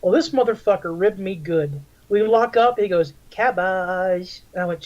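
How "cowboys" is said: Cartman impression. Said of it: "almost like Eric Cartman".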